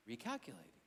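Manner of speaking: low, soft robotic navigation voice; GPS voice. Retold or imitated. Old Magellan GPS after a missed turn, robotic and soft. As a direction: drone it like an old GPS unit. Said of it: "it'd go".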